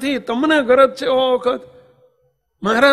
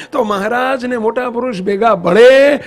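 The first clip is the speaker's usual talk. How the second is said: ભળે repeated louder each time; fervent preacher crescendo; building emphasis; 5 dB louder than usual. Real, not acted.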